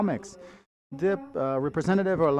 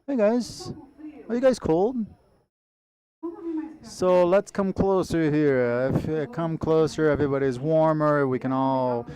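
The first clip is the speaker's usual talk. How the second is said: loud, high calling out to the crowd; loud street performer hustle; 4 semitones higher, 3 dB louder than usual. Real, not acted. Host calls audience to come closer.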